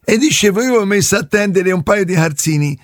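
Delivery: lightly put-on yokel caller voice; prank caller voice. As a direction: play a dim neighbour on the phone.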